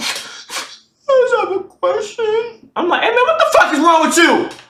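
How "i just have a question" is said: put-on crying, high, very slow and drawn out. Retelling a woman calling on the phone from a dorm laundry room, imitating someone crying. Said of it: "crying like".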